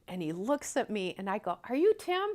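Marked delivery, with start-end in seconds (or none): 1.7-2.3 loud, high question to a stranger; acted-out shout from a car; retold calling out. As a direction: pitch it up and project.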